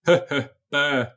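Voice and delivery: mock scare grunts, "hö, hö, pö"; imitated jump-scare noise. Podcaster mimicking a cheap horror game's jump scare, mock scare noises. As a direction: blurt out little fake monster noises.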